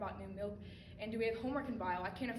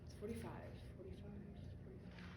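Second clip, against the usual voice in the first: each repeat softer, trailing off; fading away; 3 semitones lower, 13 dB quieter than usual. Acted. Answer slipping from memory, fading to a murmur. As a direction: let the answer slip away.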